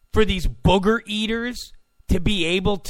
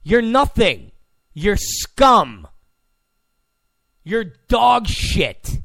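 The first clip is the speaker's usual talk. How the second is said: louder, slow cold put-down; contemptuous dismissal; 3 dB louder, slower than usual. Retold or imitated. Host voicing the put-down journalists get, loud and scornful. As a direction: spit each insult at them. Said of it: "here they are being told".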